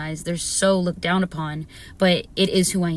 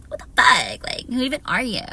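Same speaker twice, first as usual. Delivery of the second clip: mock outrage; 4 semitones higher than usual. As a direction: play at being offended, big swings. Mock indignation at haters.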